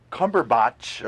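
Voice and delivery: "Cumberbatch" ending in "botch"; mispronounced name. Real, not acted. Podcaster fumbling the actor's surname, "Cumberbatch" said as "Cumber-botch". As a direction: say "Cumberbatch" with an open "ah" in the last syllable, like "botch".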